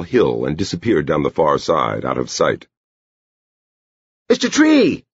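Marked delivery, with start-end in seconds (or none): 4.3-5.1 put-on high-pitched girlish call. A narrator's reading. Edie hails the man going over the hill, high call. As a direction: call out high, to someone walking off. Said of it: "Edie called".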